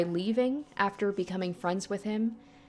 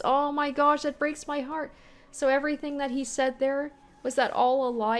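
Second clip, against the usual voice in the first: upset; 7 semitones higher than usual. Real, not acted. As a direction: cry out at the twist. Reacts to heartbreaking twist.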